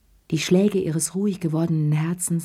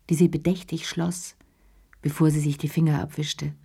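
ordinary delivery

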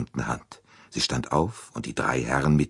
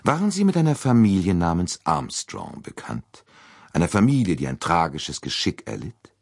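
probing detective; 5 semitones higher, 3 dB louder than usual. Acted. Poirot questions about Armstrongs.

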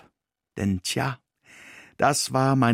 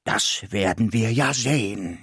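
1 growled. Acted. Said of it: "knurrte es mir".

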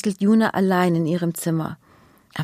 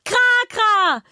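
high, joyful cry; overjoyed call; 14 semitones higher, 3 dB louder than usual. Acted. Girl happily calling to her rescued dino. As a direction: call out in pure relief. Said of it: "ruft Juna oberglücklich".

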